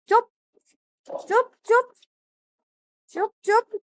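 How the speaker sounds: high soothing shush; hushing. Real, not acted. Hushing the crying little boy, high repeated shush.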